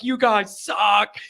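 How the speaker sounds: understated mock yell, drawn out; imitated yelling fan. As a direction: stretch the jeer without really shouting. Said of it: "he's just yelling it".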